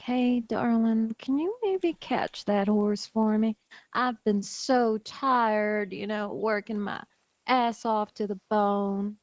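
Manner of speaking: slow, sultry, coaxing drawl. Acted. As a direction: purr it out slowly to charm him. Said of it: "sultry voice".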